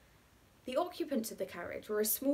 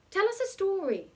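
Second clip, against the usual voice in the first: put-on much higher, louder childish demand; demanding girl; 12 semitones higher, 7 dB louder than usual. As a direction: insist like an eager little girl. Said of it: "demanded the bigger of the small girls".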